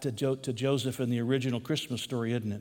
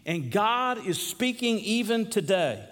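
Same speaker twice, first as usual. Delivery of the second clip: emphatic preaching; 8 semitones higher than usual. Acted. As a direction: preach it with measured conviction. Preaching with force.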